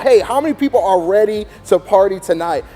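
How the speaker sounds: high, loud, excited host; high energy hype. Shown as a demonstration. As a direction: fire up a sleepy crowd. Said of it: "we're gonna bring energy into the room".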